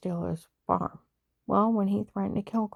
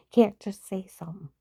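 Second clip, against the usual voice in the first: breathy whispered aside. Real, not acted. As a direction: drop to a whisper.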